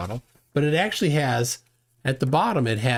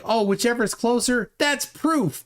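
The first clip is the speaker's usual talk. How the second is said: much higher, a silly dismissive voice; mocking flat earthers; 8 semitones higher than usual. Mocking how flat earthers judge their results. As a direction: ham up their naive logic. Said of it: "They think".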